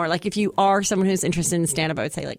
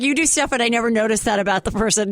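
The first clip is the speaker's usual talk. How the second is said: Chelsea Handler impression. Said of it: "can literally hear Chelsea in your voice".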